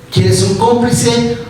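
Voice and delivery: slow, pointed "¿Quieres un cómplice?" with weight on "cómplice"; slow down and press "cómplice"; pointed slow question to the congregation. Shown as a demonstration. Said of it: "repeats slowly".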